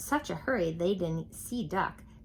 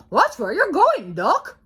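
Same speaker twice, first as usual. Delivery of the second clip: much higher, louder scolding; fussy hen; 10 semitones higher, 11 dB louder than usual. A narrator's reading. Chicken warning Duck, high scolding voice.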